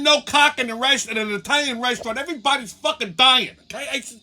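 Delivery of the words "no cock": retold loud, high shout; screaming. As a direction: yell it across the restaurant. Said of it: "Now I'm screaming".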